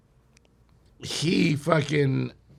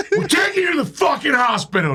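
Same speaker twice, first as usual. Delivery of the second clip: high, laughing mock shout; raised-pitch comic urgency; retold urgent order; 12 semitones higher than usual. Retelling a frantic emergency drive.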